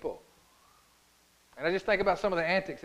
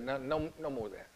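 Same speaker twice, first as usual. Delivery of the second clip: hushed and final; 4 semitones lower, 9 dB quieter, faster than usual. Retold or imitated. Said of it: "And Jesus said".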